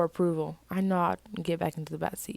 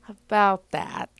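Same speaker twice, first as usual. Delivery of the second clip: nervous; 3 semitones higher, 6 dB louder, much slower than usual. Acted. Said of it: "I say nervously".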